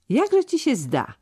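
put-on an old man asking calmly; calm question. A narrator's reading. An old steward calmly questioning the young lad, slow and even. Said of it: "mówił spokojnie".

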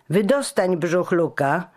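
bright, lifted call to his friend; cheerful call. A narrator's reading. Giano calls his fat friend out from hiding, cheerfully. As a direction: call out, relieved and merry. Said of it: "zawołał Giano wesoło".

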